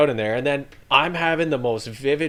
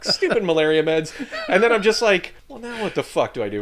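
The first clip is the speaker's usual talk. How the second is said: exasperated muttering; 9 semitones higher, 5 dB louder than usual. Retold or imitated. Retold annoyance at himself.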